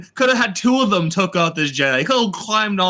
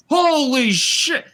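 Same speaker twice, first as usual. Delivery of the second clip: drawn-out, higher-pitched slow-motion exclamation; mock slow motion; 6 semitones higher, much slower than usual. Reviewer mimics Soul watching the witch transform, slow-motion shock. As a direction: stretch each word as if in slow motion. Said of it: "in slow motion goes".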